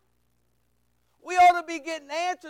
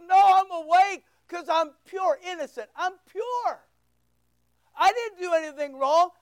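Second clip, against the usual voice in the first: raised, insistent protest; defiant; 3 semitones higher than usual. Acted. Daniel answering those who forbade prayer, lightly acted defiance. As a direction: stand firm, hammering the claim of innocence.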